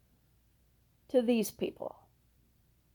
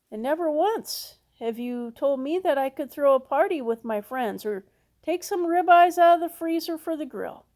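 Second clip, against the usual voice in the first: put-on louder, aggrieved older-son rant; resentful complaint; 3 semitones higher, 4 dB louder than usual. Older son complains to his father, louder and aggrieved. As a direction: list every chore like you've been cheated.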